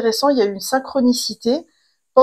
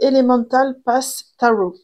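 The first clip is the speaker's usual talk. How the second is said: "Elemental Pass Tarot" said in English with a French accent, French vowels and French rhythm; 2 semitones higher than usual. Real, not acted. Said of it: "j'adore mon accent".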